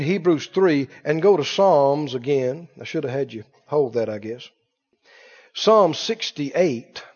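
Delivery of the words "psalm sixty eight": slow announcing. Real, not acted. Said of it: "Hold your place".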